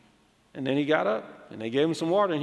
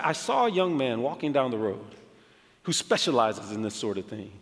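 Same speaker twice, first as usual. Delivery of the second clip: lower, unhurried reassurance; imitated calm pastor; 5 semitones lower, 3 dB quieter than usual. Zambian pastor explaining whom he sent in, calm. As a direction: voice the pastor's composure. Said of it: "He seems so calm".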